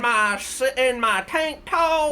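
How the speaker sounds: high, slow mock seductive voice; mocking, sultry. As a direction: tease it out slowly. Mocking the video character.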